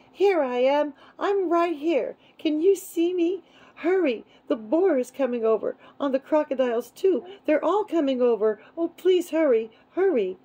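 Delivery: very high, loud pleading calls; desperate yelling. A narrator's reading. Baby dragon calling my father to hurry, frantic yell. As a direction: yell urgently for rescue.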